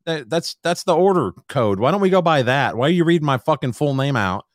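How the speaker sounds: exasperated lecture to the drive-thru staff; indignant rant. Retold or imitated. Customer ranting at the worker about reading his name, high and indignant.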